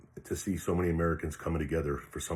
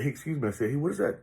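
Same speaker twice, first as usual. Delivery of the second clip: high-pitched polite hail; calling for attention; 8 semitones higher, faster than usual. Retold or imitated. Replaying how he stopped the stranger walking away, calling for attention. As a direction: lift the voice up high to catch someone walking off.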